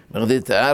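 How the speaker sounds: בגדי with a soft throaty gh in place of a hard g; soft gimel. Shown as a demonstration. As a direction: say בגדי with the ג as a breathy gh. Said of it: "ג' רפויה".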